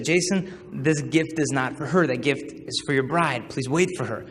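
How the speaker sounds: slow, measured voice of conscience; inner voice. Retold or imitated. Voice in his heart pleading to wait, slow and earnest. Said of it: "this voice that just said".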